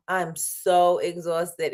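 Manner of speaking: drawn-out, slow and weary; slow tired sigh. Real, not acted. Vlogger tells viewers how tired she is, slowly. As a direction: let the tiredness stretch every word.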